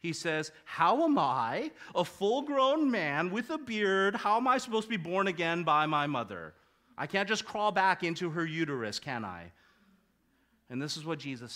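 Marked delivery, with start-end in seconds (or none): 0.7-9.5 cheeky. Retold or imitated. Nicodemus talking back to Jesus, cheeky and incredulous. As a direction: poke fun at the idea, drawing it out. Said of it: "he starts getting cheeky with Jesus".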